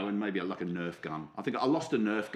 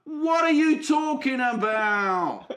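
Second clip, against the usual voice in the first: high, loud, drawn-out mock outrage; mock outraged bafflement; 11 semitones higher, 6 dB louder, slower than usual. Baffled co-host asks about soap, mock outraged wail. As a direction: wail it slowly in exaggerated disbelief.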